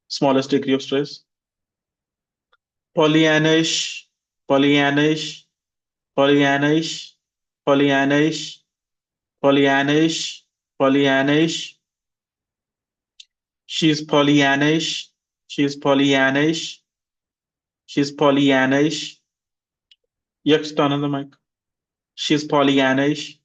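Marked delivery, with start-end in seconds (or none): 3.0-11.7 Pollyannish with stress on -an-; stress drill. Shown as a demonstration. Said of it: "repeat after me". 13.7-23.4 she's Pollyannish, rising end; teacher drills the phrase; stress drill. Shown as a demonstration. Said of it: "repeat after me".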